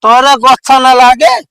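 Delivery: put-on slurred drunk arguing; tipsy and belligerent; town drunk. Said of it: "दारू पिए है का?".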